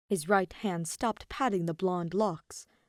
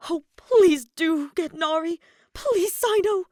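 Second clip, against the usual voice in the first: much higher, louder, slow eager plea; bright delight; 11 semitones higher, 9 dB louder than usual. A narrator's reading. Kaveh eagerly begging Cyno to fetch his wife. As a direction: beg happily, all smiles. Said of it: "smiled brightly".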